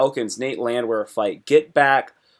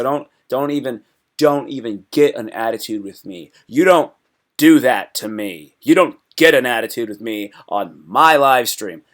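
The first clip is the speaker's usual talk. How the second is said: mock stern; 2 semitones lower, 4 dB louder than usual. Streamer mock-scolding viewers about spoilers, louder. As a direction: pretend to warn the chat off. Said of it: "I'm kidding".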